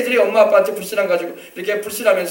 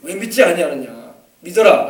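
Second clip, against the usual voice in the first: gentle rebuke; 4 semitones lower than usual. Acted. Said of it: "나무라신 거예요".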